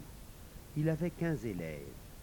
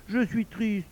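lightly voiced sulking wife, pitched up; sulky wife; 9 semitones higher, 4 dB louder, slower than usual. A narrator's reading. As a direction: let the wife complain in a higher voice. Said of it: "Elle se défit de lui en grognant".

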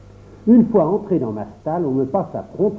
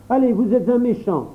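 put-on higher, sulky child voice; hurt little boy; 8 semitones higher than usual. A narrator's reading. Jacques turning on his donkey, higher sulky child voice. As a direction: push him away like a wounded boy.

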